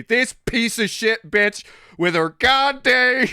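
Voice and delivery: high, loud, slow mock rant; imitating ranting. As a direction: go off in hammed-up outrage. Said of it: "hearing Michelle go off".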